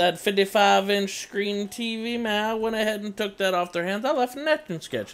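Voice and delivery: excited bragging. Real, not acted. Bragging about a cheeky swap.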